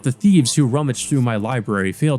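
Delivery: lightly voiced arrogant vampire; haughty vampire. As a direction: look down on them from old age.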